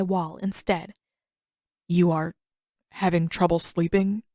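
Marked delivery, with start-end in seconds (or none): 1.9-4.2 stiff halting. Acted. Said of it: "he asked stiffly, haltingly".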